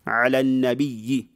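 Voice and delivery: النبي ending in a doubled ya plus vowel; wrong doubled-ya reading. Shown as a demonstration. Teacher repeating the reading to avoid, النبي with tashdid. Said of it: "Ici, on ne lit pas".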